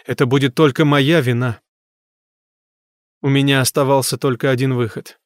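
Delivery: plain reading voice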